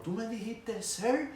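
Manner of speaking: high indignant shout rising on sir; outraged yell. Retold or imitated. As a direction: she can't believe he called her sir. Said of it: "esa mujer se volvió loca". (grito indignado y agudo)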